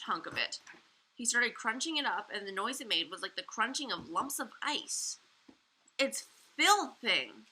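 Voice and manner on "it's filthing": slow, loud splutter with mouth full. A narrator's reading. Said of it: "he spluttered ... mouth full".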